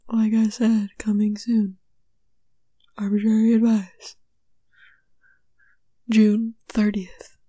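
deliberate mock trailer read; dramatic, spaced-out announcer delivery; movie trailer announcer. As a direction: announce a release date like a film trailer. Repeats the movie trailer bit.

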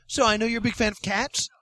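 whispered question; conspiratorial whisper to the guest. Acted. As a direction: lean in and whisper it.

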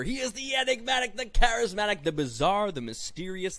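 lightly hammed-up announcer build; hype intro. Host billing the last jobber, mild announcer hype.

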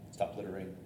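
ordinary talk

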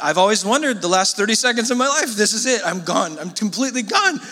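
panicking passenger on a crashing plane, hammed-up; flipping out. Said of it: "is flipping out".

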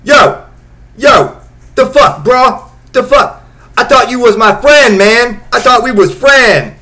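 put-on loud, high street-kid shouting; imitating a teen yelling. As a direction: yell it like an angry teen betrayed by his friend. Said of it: "and then I hear".

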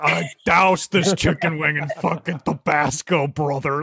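hammed-up stoner impression; mock stoned friends. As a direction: imitate two stoned hot-sauce fans raving. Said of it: "It sounded like you were both stoned".

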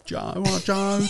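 very high-pitched East End mock voice; East End auntie. Man joining in the auntie impression, high East End voice. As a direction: squeal a greeting in broad East End. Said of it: "East End, all with it".

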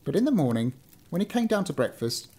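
measured storybook reading; story narration. A narrator's reading. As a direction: read it out like an old-fashioned tale. Reads a story aloud.

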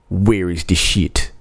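put-on slow, botched French accent for a German cop; mock French accent. German police officer confronts the musicians backstage, bad French accent. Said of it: "why did the German police officer have a French accent".

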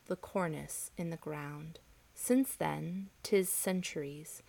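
poem reading. Acted. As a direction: read the poem gently, letting lines fall. Reads Dickinson poem aloud.

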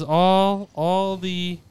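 breathing loudly into the mic; heavy breathing. Real, not acted. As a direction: huff and puff between words. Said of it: "Why are you breathing like that?".

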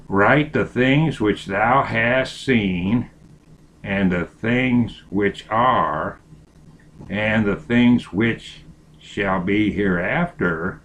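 slow solemn Bible reading; scripture reading. Acted. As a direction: read it slow and reverent.

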